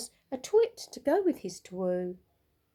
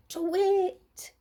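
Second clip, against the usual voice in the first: high, louder owl call; owl shout; 10 semitones higher, 4 dB louder than usual. A narrator's reading. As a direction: shout it out into the woods. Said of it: "Olive shouted".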